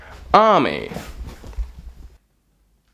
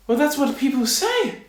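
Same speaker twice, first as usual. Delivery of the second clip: high, puzzled little man; confused tailor; 12 semitones higher than usual. Acted. Tailor asked by the king what people say, confused. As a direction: answer in a higher, bewildered voice.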